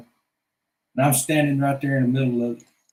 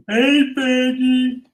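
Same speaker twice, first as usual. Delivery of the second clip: louder, slow, higher call; drawn-out call; 7 semitones higher, 6 dB louder, much slower than usual. Acted. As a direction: stretch the call out.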